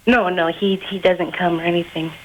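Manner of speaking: put-on boy faking a young girl's voice. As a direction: pass yourself off as a teenage girl. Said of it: "do the chick voice again".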